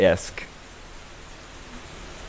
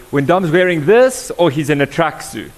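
mock skeptical voice; 6 semitones higher, 6 dB louder than usual. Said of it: "Or they say".

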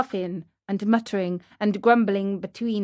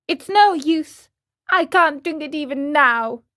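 put-on complaining child, pitched up; higher childish grumble; whiny puppet boy; 5 semitones higher, 3 dB louder than usual. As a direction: fuss like a balky marionette.

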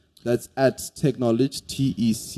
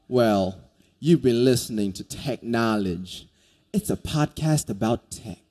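put-on lightly done hillbilly accent; 3 dB quieter than usual. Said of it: "let me do it the hillbilly accent".

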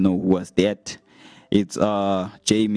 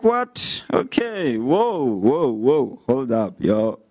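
shocked; 3 semitones higher, slower than usual. Retold or imitated. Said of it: "And I'm like".

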